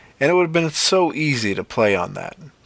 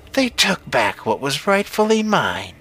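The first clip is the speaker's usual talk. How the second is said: higher witch voice, swooping upward; 5 semitones higher than usual. A narrator's reading. Witch justifying what her crows took, high witch voice. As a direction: claim it in a high, eerie witch voice.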